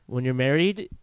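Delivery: measured, subdued pronouncement after a sigh; solemn haiku. Retold or imitated. Married seller confides in the buyer, like a haiku. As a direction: quietly recite it like a haiku. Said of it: "said that like a haiku".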